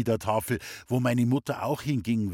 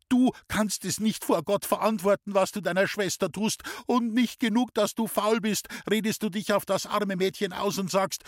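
furious mother; 10 semitones higher than usual. Acted. Mother rounds on her cheeky son, angrily shouting. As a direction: scold him in a rising fury. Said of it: "Da wurde meine Mutter so zornig".

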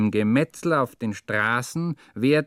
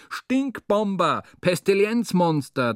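angry insults; 7 semitones higher, 4 dB louder than usual. Acted. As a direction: spit the insults at the driver. Cursing the truck driver.

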